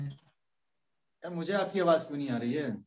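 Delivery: choppy breaking call audio; glitchy robotic call. Real, not acted. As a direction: voice stuttering over bad connection. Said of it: "आपकी आवाज अटक रही थी अभी".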